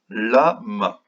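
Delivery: "Lama" in two separate beats, la, ma; syllable by syllable. Shown as a demonstration. Teacher having children count syllables, "Lama" split in two. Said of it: "Combien de syllabes?".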